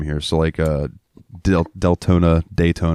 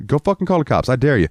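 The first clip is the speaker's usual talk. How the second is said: high-pitched taunting challenge; mock dare; 7 semitones higher, faster than usual. Wes daring the old lady, high mock taunt. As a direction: taunt her, voice jumped up high. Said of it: "He'd go".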